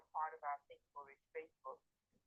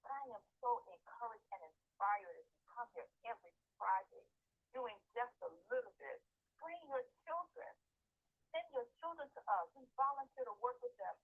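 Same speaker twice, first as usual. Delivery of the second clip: energetic; 5 semitones higher than usual. Real, not acted. Encouraged volunteer urging parents to send their children, energetic. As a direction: pitch climbing with real enthusiasm. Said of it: "tell from the energy in my voice".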